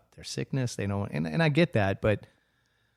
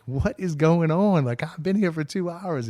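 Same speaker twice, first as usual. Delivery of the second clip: exasperated complaint; 7 semitones higher, 4 dB louder than usual. Retold or imitated. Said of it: "I'm like".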